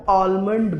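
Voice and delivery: आलमंड with the l sounded; wrong pronunciation. Shown as a demonstration. Teacher quoting how many in India say badam, wrong आलमंड. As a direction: say आलमंड as "aal-mund", l pronounced. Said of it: "which is wrong".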